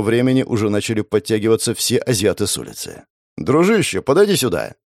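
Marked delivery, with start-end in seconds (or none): 3.4-4.7 calling out. Acted. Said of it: "крикнул я Васе".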